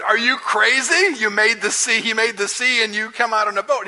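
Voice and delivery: mock-incredulous sailor. Sailors mocking Jonah.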